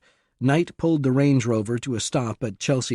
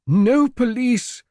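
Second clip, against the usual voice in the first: much higher, louder, slow urgent plea; said urgently; 13 semitones higher, 6 dB louder, slower than usual. A narrator's reading. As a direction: beg them not to call the police. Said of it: "the Duke said urgently".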